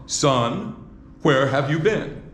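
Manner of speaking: a relieved mother half-scolding, laughing; exasperated mother. Shown as a demonstration. Preacher demos Mary scolding her lost son, laughing. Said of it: "I don't think that would be the voice. How about".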